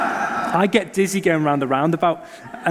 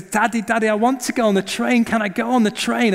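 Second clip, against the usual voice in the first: put-on excited child; 5 semitones higher than usual. Child voiced in sermon story.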